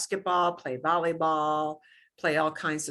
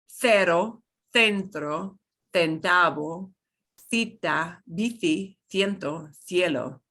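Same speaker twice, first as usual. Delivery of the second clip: Castilian lisp; 2 semitones lower than usual. Shown as a demonstration. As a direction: say the c like th, as in Spain. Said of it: "this is how a Spaniard, a true Spaniard, would pronounce".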